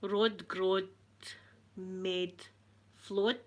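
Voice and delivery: "Rod Grod Med Flod" broken up with pauses; halting attempt. Shown as a demonstration. First try at unfamiliar phrase.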